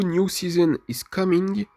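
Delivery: English accent. Shown as a demonstration. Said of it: "Mon accent anglais est très pourri".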